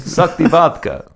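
put-on Russian vampire accent. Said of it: "Russian hipster vampire".

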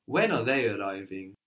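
"they" lifted out as the key word; stress on they. Shown as a demonstration. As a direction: punch "they" within the question. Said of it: "Stressing the word for they".

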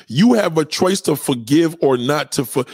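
mock, sing-song recital of the cliché; imitating disgruntled person. Mocking the disgruntled, lightly sneering. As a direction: recite it like a bitter preacher. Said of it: "Disgruntled people talk like this".

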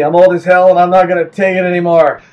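put-on loud cranky old-man slogan; grumpy old man voice. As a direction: bellow like a fed-up old man. Bob Dole campaign slogan.

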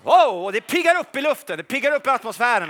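loud, high wow; excited. Real, not acted. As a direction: exult in the charged air. Excited after proclamation.

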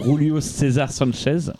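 slow, deliberate Spanish pronunciation of the name; Spanish accent. Retold or imitated. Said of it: "mon accent espagnol".

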